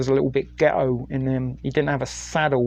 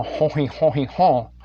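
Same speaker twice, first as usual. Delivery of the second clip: mock French "ho he ho" chuckle; stereotype French laugh. Streamer sending up stereotype French, mock French chuckle. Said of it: "stereotype French".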